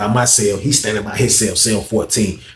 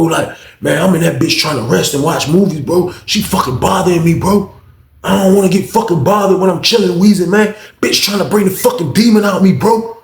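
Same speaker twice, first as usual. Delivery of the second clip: acted agitated complaint; 5 semitones higher than usual. Inmate venting to his friend about being bothered, acted agitation.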